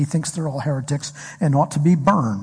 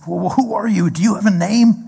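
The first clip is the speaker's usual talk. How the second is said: Moses asking; 5 semitones higher than usual. Retold or imitated. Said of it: "And he says".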